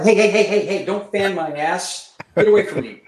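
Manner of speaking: mock protest. Man in a Korean bar bathroom shooing off an attendant, mock alarm. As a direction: shoo him off in a laughing panic.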